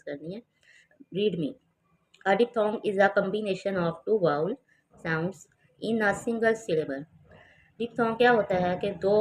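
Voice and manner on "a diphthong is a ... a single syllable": reads the definition word by word, very slowly; slow textbook reading. Shown as a demonstration. Teacher reading the definition to students, very slow. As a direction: dictate it slowly to the class.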